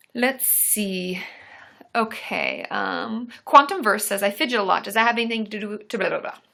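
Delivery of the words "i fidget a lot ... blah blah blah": rushed, rattled-off, way too fast. Reading a viewer's question aloud, talking way too fast. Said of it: "I'm talking way too fast".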